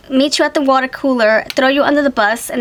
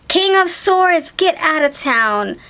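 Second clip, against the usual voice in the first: high, slow astonished naming; amazed exclaim; 5 semitones higher, slower than usual. Real, not acted. Reader stunned by the King of Swords, drawn out. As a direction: savor the card in disbelief.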